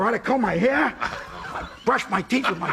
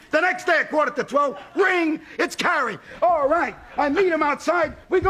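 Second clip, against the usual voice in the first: excited; 4 semitones higher than usual. Real, not acted. Building excitement in retelling.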